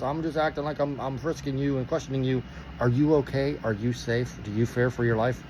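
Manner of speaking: low, soft undertone; confidential check. Retold or imitated. Cop pretending to frisk checks on driver, confidentially. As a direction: imitate a cop secretly asking if someone is safe.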